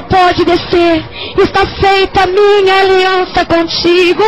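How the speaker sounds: slow, forceful preacher voicing God; booming retold decree; God's proclaimed answer. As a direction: proclaim it slowly, stretching the words.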